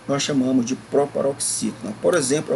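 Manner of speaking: normal talking voice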